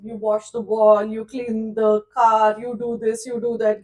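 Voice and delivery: loud teacher barking out chores; loud, commanding list of chores; bossy teacher orders. Retold or imitated. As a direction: order the boy about like a strict teacher.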